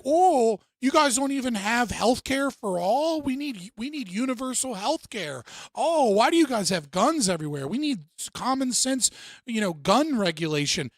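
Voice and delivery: mock a smug British newcomer in a goofy British accent. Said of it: "having their goofy ass fucking accent being like".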